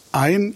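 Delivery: EIN drawn out and emphasized; stress on EIN. Real, not acted. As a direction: lean slowly on the word EIN. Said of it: "also Betonung auf ein". (Betonung auf EIN, gedehnt)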